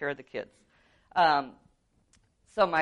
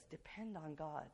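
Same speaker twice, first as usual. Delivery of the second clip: sincere biblical counter; 22 dB quieter than usual. Retold or imitated. Preacher answering with the Bible, soft and sincere. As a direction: settle it quietly as truth. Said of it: "But the Bible says".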